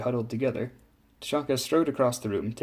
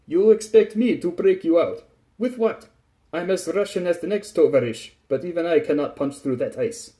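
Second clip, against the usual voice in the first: loud, high Russian figure; raised, sceptical character voice; Tachanka, incredulous; 6 semitones higher, 6 dB louder than usual. A narrator's reading. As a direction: protest in disbelief as a Russian sailor.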